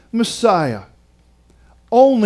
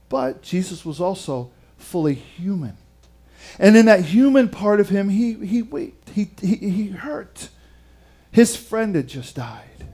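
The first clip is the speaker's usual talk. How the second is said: tender hush; 3 dB quieter than usual. Retold or imitated. Priest explains Jesus' grief to the preacher, tenderly soft. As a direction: hold back almost to a murmur.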